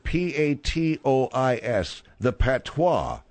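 P A T O I S letter by letter, slowly; spelled out slowly. Shown as a demonstration. Host savoring the word patois, spelled out slowly. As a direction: linger on each letter of patois. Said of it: "I like that word".

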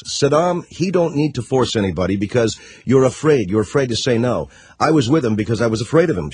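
lightly put-on Middle Eastern accent; mock Middle Eastern accent. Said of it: "I'm doing the accent".

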